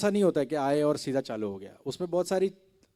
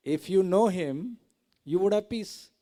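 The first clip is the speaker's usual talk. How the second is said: preaching; 5 semitones higher, 5 dB louder, much slower than usual. Acted. Preaching the moral.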